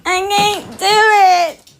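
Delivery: breaking up laughing; crying with laughter; laughing too hard. Real, not acted. Laughing fit, can't go on.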